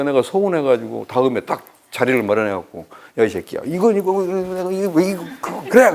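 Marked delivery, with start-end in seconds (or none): 3.2-5.9 mock sputtering tirade, climbing higher; retold confrontation. Hurt friend has it out face to face, mock sputtering confrontation. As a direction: stammer through a hammed-up complaint.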